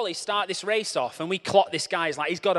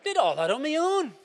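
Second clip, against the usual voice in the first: much higher, loud, indignant; Jesus in a huff; 11 semitones higher, 5 dB louder than usual. Acted. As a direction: complain like a sulking running partner. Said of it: "Jesus sits down in a huff".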